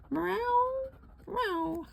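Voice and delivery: questioning meow. Retold or imitated. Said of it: "Like a question".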